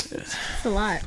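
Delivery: breathy whisper through a laugh; a tiny whispered joke to the host; whispered laughing aside. Real, not acted. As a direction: murmur it aside while laughing. Laughing aside about the dates.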